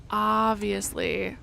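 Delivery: slow, stretched "obviously" with a rising end; drawn-out sarcastic. Shown as a demonstration. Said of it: "repeated drawn out".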